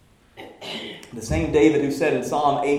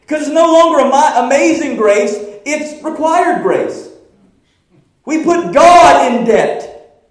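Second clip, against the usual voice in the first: full-force preaching; 13 semitones higher, 15 dB louder than usual. Acted. Pastor thundering at the congregation about pride, full-force preaching. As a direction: preach it to the rafters.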